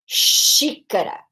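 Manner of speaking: Xícara slowly, with the X as a long sh; Xícara with a slow, long opening sh. Shown as a demonstration. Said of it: "nosso equivalente ao X".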